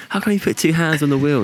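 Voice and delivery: amused retelling of the examiner's question; laughing quote. Retold or imitated.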